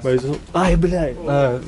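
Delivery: sudden ouch after bumping head; pained yelp. Real, not acted. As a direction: cry out and swear from the knock. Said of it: "I hit it".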